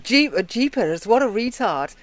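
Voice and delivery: Brit trying out an American "jeepers"; attempted American accent. Shown as a demonstration. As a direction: try the American way, not quite there. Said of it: "obviously I can't do it like you guys".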